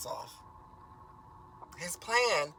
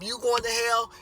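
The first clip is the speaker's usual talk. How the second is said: angry accusation; 5 semitones higher, 4 dB louder than usual. Retold or imitated. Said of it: "point at the mom".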